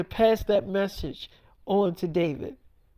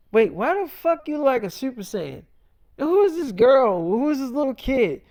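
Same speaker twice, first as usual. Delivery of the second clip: incredulous questions with higher pitch swoops; acted bewilderment; 4 semitones higher, 3 dB louder than usual. Man demands answers from his future self, bewildered. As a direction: play it baffled, pitch jumping up on the questions.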